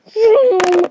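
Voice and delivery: high, loud vroom of a lightsaber; kid's saber noise; lightsaber sound. Retold or imitated. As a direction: buzz it out like a toy saber igniting. Lightsaber igniting.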